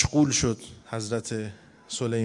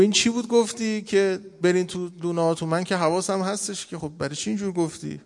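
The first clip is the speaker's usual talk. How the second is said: higher, gently puzzled questioning; smiling question; 5 semitones higher than usual. Retold or imitated. Solomon asking the ant why it warned the others, smiling. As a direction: ask lightly, a smile in the voice. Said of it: "اینجا لبخندی هم زد".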